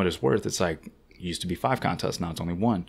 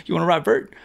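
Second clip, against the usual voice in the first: high, loud call down from the top of the ramp; 10 semitones higher, 6 dB louder than usual. Retold or imitated. Zach yelling down to the rider below, loud high call. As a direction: shout the question down to the flat bottom.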